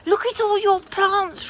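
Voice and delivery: high, gushing delight after a gasp; excited admiration. Real, not acted. Customer admiring the shopkeeper's plants, excited gushing.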